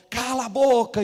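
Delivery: loud snapped command; gunman's bark. Retold or imitated. Gunman with gun in pastor's mouth, loud order. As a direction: shut him up with one loud blast.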